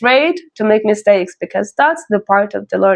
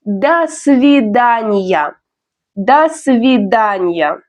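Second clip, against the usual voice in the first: pronunciation demo; 2 semitones lower, slower than usual. Shown as a demonstration. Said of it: "First is a formal way".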